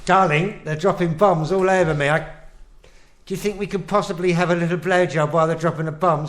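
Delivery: lightly voiced pompous old-film husband; a hint of a domineering 1940s gent, brisk; posh film husband. Husband bossing his wife, lightly voiced posh film gent. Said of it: "like the old British films".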